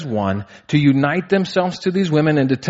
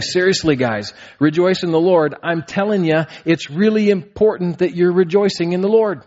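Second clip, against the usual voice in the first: higher, insistent urging; earnest paraphrase of Paul; 5 semitones higher than usual. Retold or imitated. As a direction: plead with the church to take it seriously. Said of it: "He's saying".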